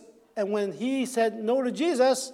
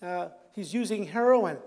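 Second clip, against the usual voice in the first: smug assumptions; 5 dB quieter than usual. Retold or imitated. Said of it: "I said".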